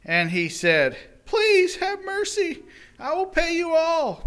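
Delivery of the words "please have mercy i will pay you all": desperate pleading. Acted. Debtor at his feet, high desperate begging. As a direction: beg for your life.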